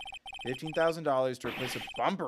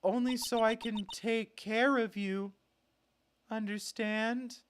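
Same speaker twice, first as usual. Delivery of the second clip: creepy doting voice; 6 semitones higher than usual. Acted.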